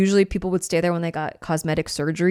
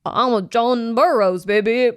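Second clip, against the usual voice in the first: slower, sultrier croon in the style of a famous singer; impression of a singer; 4 semitones higher, slower than usual. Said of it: "Oh, wow, that was better".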